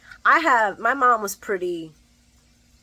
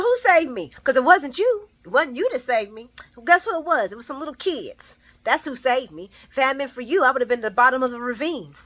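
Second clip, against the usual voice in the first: Ava furious; 4 semitones higher than usual. Retold or imitated. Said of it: "She said".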